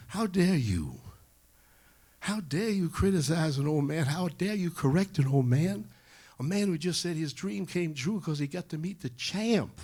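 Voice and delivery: high, loud indignant rebuke; acted righteous dressing-down; criticizing. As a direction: scold them as the champion, hitting each "how dare". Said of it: "criticizing his entourage".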